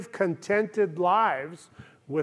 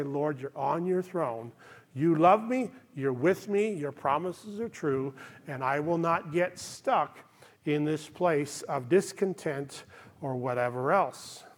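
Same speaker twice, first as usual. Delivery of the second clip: quiet trusting prayer; 3 semitones lower, 5 dB quieter than usual. Retold or imitated. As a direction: pray it calmly, softly, with trust. Prayer voiced to God.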